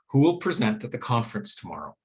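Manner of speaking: brisk question dropping on TOMORROW; falling question intonation. Shown as a demonstration. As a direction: let "tomorrow" fall to close the question. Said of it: "we get that drop at the end".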